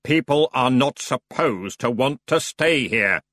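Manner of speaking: slow, mild curt ferryman; understated snap; snapping. Acted. The ferryman snaps at the stubborn Feegles. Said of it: "snapped the ferryman".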